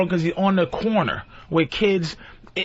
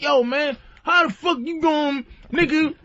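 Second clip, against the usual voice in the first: higher-pitched, slow hood greeting; hood talk; 5 semitones higher, slower than usual. Acted. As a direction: lay on the hood talk for the foreman. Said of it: "I'm trying to stay hood".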